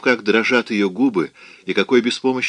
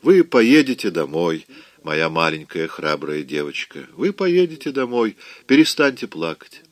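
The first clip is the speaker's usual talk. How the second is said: gentle comforting; 3 semitones lower than usual. Acted. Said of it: "ласково говорил Рет".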